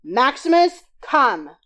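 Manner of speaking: husband trying his turn at calling the dog. A narrator's reading. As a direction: call the stubborn dog sternly. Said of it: "my husband had to try".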